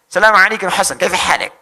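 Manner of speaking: loud greeting in an Arab accent; Arab speaker impression. Shown as a demonstration. Greeting Hasan to show off Arabic, mimicked Arab accent. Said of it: "bisa bahasa Arab".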